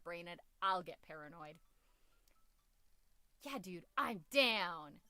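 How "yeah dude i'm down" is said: slow, louder, drawn-out bro agreement; laid-back bro. Acted. Dad accepting his friend's dinner invite, slow and laid-back. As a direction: stretch it out like a chill bro. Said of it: "performing the chosen reply".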